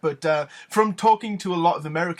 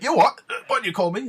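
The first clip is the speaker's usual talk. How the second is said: louder, higher affronted challenge; offended Geordie listener; 6 semitones higher, 5 dB louder than usual. Retold or imitated. Offended local challenging the Newcastle speaker, affronted. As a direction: bristle at the insult. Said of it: "some people get offended by it".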